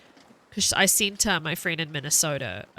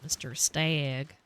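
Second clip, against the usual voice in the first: slow, drawn-out southern silly voice; southern accent; much slower than usual. Pretend. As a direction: stretch it out like a Southern drawl. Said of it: "I go southern sometimes ... making silly voices".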